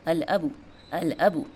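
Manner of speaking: "अल अबू" with the l fully sounded; careful repeated model of "अल अबू"; clear lam. Shown as a demonstration. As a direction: keep "अल" distinct before "अबू". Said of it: "लाम का sound जो है clear आ जाता है".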